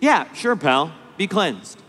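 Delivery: offhand, shrugging brush-off; a careless, bored mock-healer; casual indifference. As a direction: toss it away like it's nothing. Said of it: "with casual indifference".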